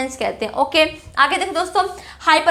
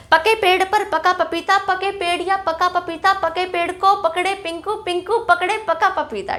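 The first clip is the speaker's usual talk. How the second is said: tongue twister recital; 2 semitones higher than usual. Shown as a demonstration. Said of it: "एक और सुनाती हूँ आपको".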